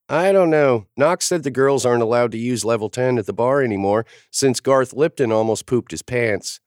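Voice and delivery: put-on a matter-of-fact little girl; kid voice. A narrator's reading. Girl explaining to the adults, in a kid voice. Child Waylay voiced in story.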